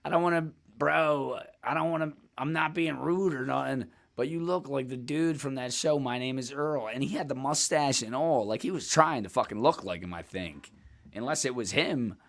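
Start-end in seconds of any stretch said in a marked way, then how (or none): 0.1-6.9 polite tentative. Retold or imitated. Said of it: "I said it in this way".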